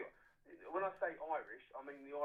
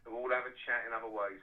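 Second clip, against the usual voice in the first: rallying loud declaration; 3 semitones lower, 7 dB louder than usual. Real, not acted. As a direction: drive each word home like a battle cry. Caller rallying listeners for war.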